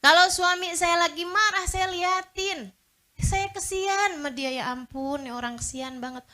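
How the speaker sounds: a hint of a calm wife pitying her husband; wife's voice. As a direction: play the patient wife, gently pitying. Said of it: "cakep kan kalau kayak gini".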